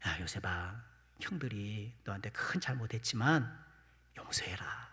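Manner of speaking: low, hushed voice of a father to his son; 늙은 아버지의 유언. Acted. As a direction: act a father's last plea, very soft and low, fading to a whisper. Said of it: "아버지 야곱이 살아생전에 그런 말을 했나 봐요". (낮고 나직하게 속삭이듯 당부하는 아버지 목소리)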